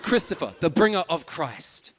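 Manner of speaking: proud, measured announcement of a name; hopeful naming. Acted. Parents naming their first child, hopefully. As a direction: give the name a touch of grandeur, slowing on the title. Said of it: "the hope dying as it goes on".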